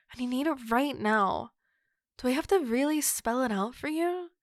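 loud, exasperated outburst; pent-up frustration bursting into a loud yell; frustrated yell. Acted. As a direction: snap it out in hot frustration. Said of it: "I didn't mean to yell at you".

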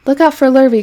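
high, loud warning call; excited calling out. A narrator's reading. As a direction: warn a friend from across the field. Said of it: "called the cows".

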